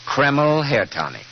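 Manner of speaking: put-on smooth old-time radio commercial; ad read. Host pitching hair tonic to listeners, persuasive ad read. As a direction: sell the hair tonic with polish.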